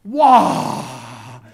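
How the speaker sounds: loud, drawn-out gasp of wonder; a big retold "wow" of astonishment; amazed wow. Preacher recalling his first sight of a fax, amazed.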